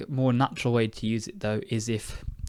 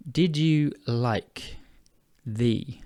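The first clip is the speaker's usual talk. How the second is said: "Did you like" dragged out very slowly; searching for the word, slow; much slower than usual. Shown as a demonstration. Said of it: "Try again".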